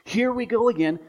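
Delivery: normal talking voice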